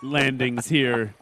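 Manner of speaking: put-on playful posh British announcer accent; lightly done British accent, not super good. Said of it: "That's the best British accent I can do".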